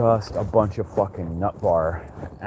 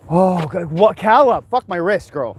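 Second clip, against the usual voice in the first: startled yelp; 8 semitones higher, 6 dB louder than usual. Real, not acted. Dog yanks her wrist.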